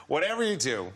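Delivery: put-on so-so American accent; badly faked American. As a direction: attempt an American accent, not very well. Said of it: "he's gonna be American now".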